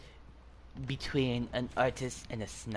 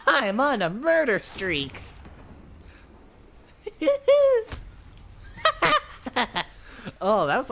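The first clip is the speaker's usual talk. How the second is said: excited laughing; 11 semitones higher, 5 dB louder than usual. Real, not acted. Gloating over kills, laughing.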